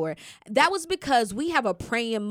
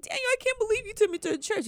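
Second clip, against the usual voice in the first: touched, retold; 10 semitones higher, faster than usual. Voicing herself to her friend.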